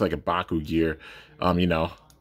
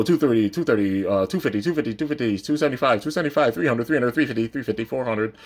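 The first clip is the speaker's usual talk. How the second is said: auctioneer; 3 semitones higher than usual. Acted. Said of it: "let's go".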